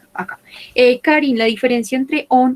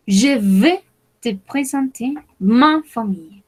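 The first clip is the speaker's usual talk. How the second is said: slow model reading; 2 semitones higher than usual. Shown as a demonstration. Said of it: "slower repeat".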